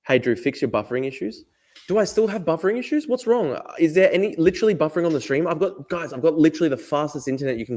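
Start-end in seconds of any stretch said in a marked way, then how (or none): 1.9-5.5 high-pitched worried questioning; taken aback. Real, not acted. Streamer hears from a viewer that his stream is buffering, taken aback. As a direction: ask in high-pitched disbelief.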